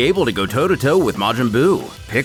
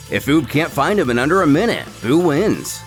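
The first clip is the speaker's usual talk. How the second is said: plain reading voice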